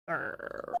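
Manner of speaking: breathy, unvoiced soft growl; a faint hissing growl, barely voiced; tiger growl. Acting out the tiger after the attack, soft breathy growl. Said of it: "the speaker making tiger noises".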